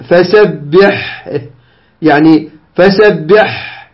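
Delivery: very slow فسبح ending on a long breathy h-sound; slow syllables, lengthened final consonant in فسبح; demonstrated pausal reading. Shown as a demonstration. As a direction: stop on فسبح, letting the final ح run on. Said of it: "هكذا اقرأ".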